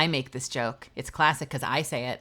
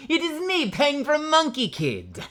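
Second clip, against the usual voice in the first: high, laughing character voice, slow at the end; giggling through a higher cartoon voice; Pang voice; 11 semitones higher, slower than usual. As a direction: nail the character this time. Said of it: "There it is. That's a little closer".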